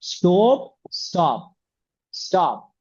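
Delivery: स्टॉप with the O said without rounding the lips; स्टॉप, O with unrounded lips. Shown as a demonstration. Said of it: "ओ बोला है लेकिन होठ नहीं घुमाया".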